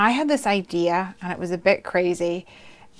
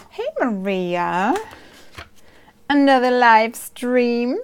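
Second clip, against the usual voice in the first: cheerful greeting; 4 semitones higher, 5 dB louder, slower than usual. Retold or imitated. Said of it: "she says".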